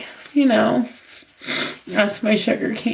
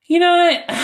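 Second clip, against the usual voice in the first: crying; 3 semitones higher than usual. Real, not acted. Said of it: "I'm probably gonna keep crying".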